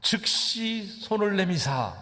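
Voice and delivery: 즉시 stretched out slowly on a high pitch; high, lingering stress on 즉시; emphatic 즉시. Acted. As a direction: draw out 즉시, high and slow, for emphasis. Preacher highlights the repeated word "immediately.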